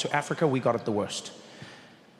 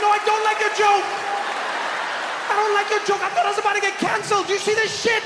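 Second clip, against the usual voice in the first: outraged protest; 14 semitones higher, 4 dB louder than usual. Retold or imitated. Trevor outraged at waiter.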